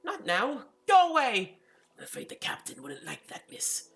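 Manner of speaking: a frightened maid yelling go away; panicked housekeeper. Acted.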